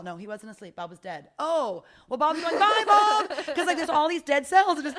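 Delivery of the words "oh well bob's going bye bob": high and loud, cheery goodbye; excited cell chatter. Pretend. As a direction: wave off a friend brightly. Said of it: "the cells are like".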